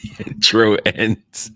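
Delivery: talking through a yawn; mid-yawn, stretched words. Real, not acted. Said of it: "Trying to finish my yawn".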